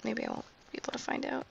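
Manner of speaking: late-night whisper; talking quietly. Real, not acted. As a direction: keep it down, people sleeping. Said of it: "I'm talking quietly because it's eleven o'clock".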